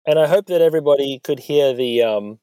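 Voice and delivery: recorded inside a parked car; boxy in-car sound. Real, not acted. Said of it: "I'm actually recording this in a car park, in my car".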